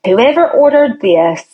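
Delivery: a hint of a furious doctor; mock angry doctor. The furious doctor blaming whoever ordered it, mild mock anger. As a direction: retell the doctor's anger lightly. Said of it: "he was so mad".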